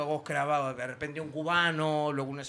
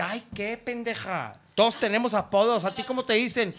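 mock scornful camp; 4 semitones higher than usual. Drag performer mocks the caller for having no nickname. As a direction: roll your eyes, then ask. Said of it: "Me dice".

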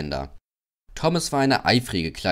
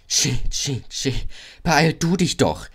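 puffed engine noises, then a higher retort; cheeky call; 5 semitones higher than usual. A narrator's reading. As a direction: answer back saucily. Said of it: "rief der freche Thomas".

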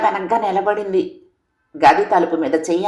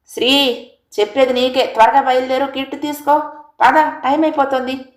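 shouting; 7 semitones higher than usual. A narrator's reading. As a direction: yell at her to hurry. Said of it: "గట్టిగా అరిచాడు".

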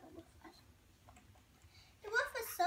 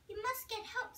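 higher-pitched, lightly squeaky mouse voice; squeaking mice; 6 semitones higher than usual. A narrator's reading. Mice urge a rescue after seeing the wolf, lightly squeaked. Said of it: "squeaked the mice".

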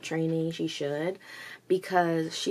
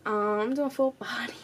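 whisper; 5 semitones higher than usual. Retold or imitated. Retelling gym chat, first take.

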